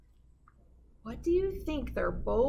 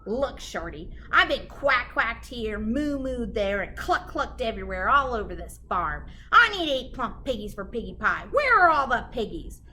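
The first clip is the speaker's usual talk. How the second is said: loud, demanding witch; 4 dB louder than usual. Acted. Gritch demanding pigs from the cow, loud and bossy. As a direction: bark it out like a hungry witch.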